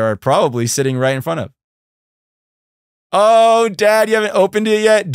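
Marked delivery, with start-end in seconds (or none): 3.1-5.1 surprised. Real, not acted. Surprised dad hasn't opened gift.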